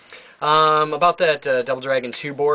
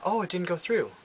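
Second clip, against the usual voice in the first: higher, apologetic shop-clerk voice; imitating the Costco cashier, higher voice; mock cashier voice; 6 semitones higher, 5 dB quieter than usual. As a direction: play the polite cashier, pitch up. Store cashier quoted by customer.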